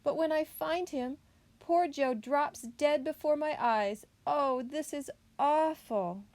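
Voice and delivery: high, hammed-up lament; weeping, moaning bear. A narrator's reading. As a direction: pour out woe, drawing out the final cry. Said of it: "bear started to cry big tears".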